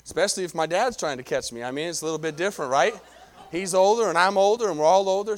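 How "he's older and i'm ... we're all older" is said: emphatic. Real, not acted. Preacher joking to church about getting older, emphatic. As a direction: punch each line home. Preacher stressing age joke.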